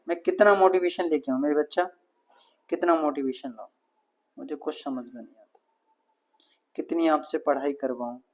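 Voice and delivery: low, hushed, disappointed teacher; real weary exasperation. Real, not acted. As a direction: let the voice sink, soft and low, despairing of your students. Teacher despairs at unmotivated students.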